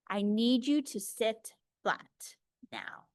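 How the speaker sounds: slow, firm whisper. Shown as a demonstration. Teacher models talking under to a child. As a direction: whisper it slowly to a restless child. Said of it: "Need, need, need".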